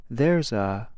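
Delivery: there's a rushed and light, unstressed; quick throwaway there's a; said quickly. Shown as a demonstration. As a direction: run there's a together fast as a lead-in.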